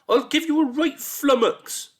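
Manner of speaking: very high, loud shrieked threat; threatening monster voice. A narrator's reading. Monster's other voice threatening a boy, shrieking. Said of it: "in yet another voice".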